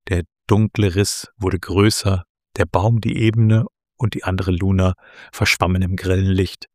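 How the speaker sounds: measured storytelling with lightly voiced dialogue; story narration. A narrator's reading. Author reads Luna's meeting at the tree, story narration. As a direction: read the tale aloud, lifting the characters' questions.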